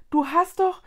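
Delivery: high and loud, broken off; aghast exclamation. A narrator's reading. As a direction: blurt it in dismay, then stop. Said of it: "rief Mila entgeistert aus".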